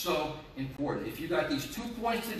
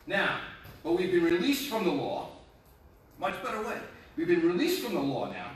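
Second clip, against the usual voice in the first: emphatic scripture reading; 3 semitones higher than usual. Acted. Pastor reads Romans to his congregation, emphatic preaching. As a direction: preach the verse out with force.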